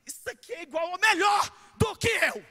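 loud, high proud announcement; husband proudly presenting. Retold or imitated. Husband showing off his wife to everyone, proud shout. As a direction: present her like a trophy, loud. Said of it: "traz a mulher e fala assim".

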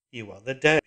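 loud cold command; hard metallic repeat; iron voice. A narrator's reading. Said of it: "repeated the iron voice".

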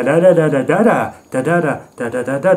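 mock a slam poet's driving, repetitive rhythm; hammered-out nonsense syllables in slam cadence; slam poetry cadence. Critic mocking how slam poets all sound, mock cadence. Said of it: "They got that cadence going".

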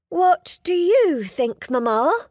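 put-on a polite young lady stalling with a bright smile. Heroine deflects question to mother.

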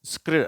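ஸ்க்ரு as one joined blend; blended consonant sound. Shown as a demonstration. Teacher answering how it is pronounced, blended ஸ்க்ரு. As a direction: run s, k, r together in ஸ்க்ரு. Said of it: "இதனுடைய உச்சரிப்பு என்னன்னா".

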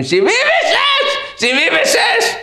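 high, drawn-out crazed yell; madhouse shouting. Retold or imitated. Madmen gloating after egging a man's face, high mock shouting. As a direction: crow the new number like a mad chorus. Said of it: "שומע את המשוגעים צועקים".

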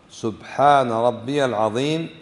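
slow سبحان ربي العظيم, the ya in ربي voiced; measured, rabbi-ya before العظيم; correct pronunciation. Shown as a demonstration. Teacher tells students how to say it, careful pronunciation. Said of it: "فتقول".

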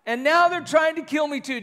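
high, self-pitying whine on now; mock-whimper to God; whiny prophet complaining; whining. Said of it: "Do you see that whining?".

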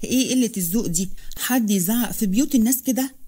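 mild indignant scolding; a touch of offended anger; angry. Acted. Amina scolds the shouting guest, mildly angry. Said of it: "وهي بتقول بغضب".

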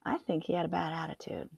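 fast confiding whisper. Acted. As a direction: whisper it to the kids.

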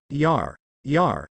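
unhurried, offhand, as if bored by the fuss; lazy voice. A narrator's reading. Cloaked stranger greeting tense guards, lazy and offhand. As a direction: toss it off lazily, barely bothered. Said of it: "a lazy voice said".

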